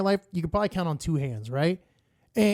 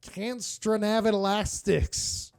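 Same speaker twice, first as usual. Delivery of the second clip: botched name reading; 4 semitones higher, slower than usual. Retold or imitated. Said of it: "I was just like".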